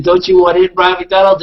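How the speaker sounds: gleeful quoted summons; excited replay. Retold or imitated. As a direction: crow about how the call worked. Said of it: "Oh my God! I said".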